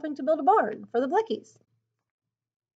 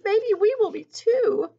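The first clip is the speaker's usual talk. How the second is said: higher, slow, drawn-out worry; mild whimper; 10 semitones higher, 5 dB louder than usual. A narrator's reading. Ruth fears the girls will be shunned, mild whimper. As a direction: whimper it lightly, pitched up and louder. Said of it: "Ruth whimpered".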